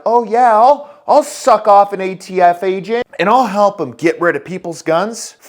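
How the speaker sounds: high, loud sneering cop voice, fading toward the end; mock him as an eager, servile cop; mocking a bootlicking cop. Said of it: "some cop who's like".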